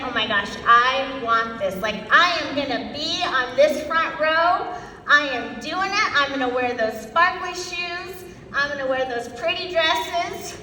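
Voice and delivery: imitating an eager, fired-up newcomer; acted-out burst of enthusiasm. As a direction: gush with mock determination, pitch climbing toward the end. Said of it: "I would get so fired up".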